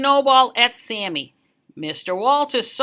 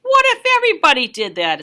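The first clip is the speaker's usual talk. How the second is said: quick, higher, louder scold; shushing librarian; 6 semitones higher, 5 dB louder, faster than usual. Acted. Librarian scolding the kid at story time, quick. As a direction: hush and scold the child. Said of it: "put her finger to her lips and said".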